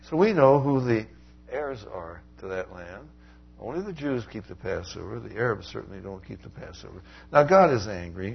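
ordinary delivery

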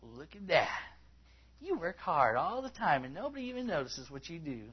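put-on whiny grumble; mock whine of the unappreciated worker; whining. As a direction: imitate a self-pitying whiner. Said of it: "When you whine, that's what you sound like".

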